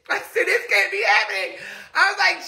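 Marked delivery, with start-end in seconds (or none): 0.4-1.6 laugh-crying. Retold or imitated. Retelling panic, laugh-crying.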